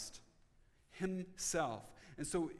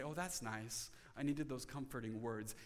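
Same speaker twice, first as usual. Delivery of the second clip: low, soft, understated approval; mild contentment; 6 semitones lower, 6 dB quieter than usual. Acted. Preacher imitates someone reading the gospel, mildly content. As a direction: voice a mildly soothed reader, low and quiet. Voicing a mildly comforted reader.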